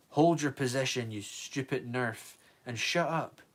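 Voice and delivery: ragged angry order; mild exhausted snarl. Acted. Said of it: "the man snarled".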